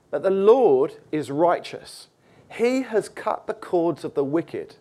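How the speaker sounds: lightly solemn reading from the pulpit; scripture reading. Acted. Reads the psalm aloud.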